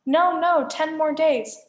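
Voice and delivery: high, loud, slow pleading; high panicked pleading. Acted. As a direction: beg in a squeaky falsetto.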